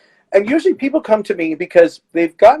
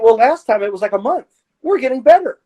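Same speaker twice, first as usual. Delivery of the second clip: higher, hopeful patient voice; lightly voiced recovering patient; patient's voice; 5 semitones higher than usual. Patient voiced in retold session.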